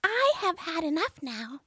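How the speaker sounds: high little frog voice; demanding frog. A narrator's reading. Frog asking the princess to share her plate, high voice. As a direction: ask it as the pushy frog. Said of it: "said the frog".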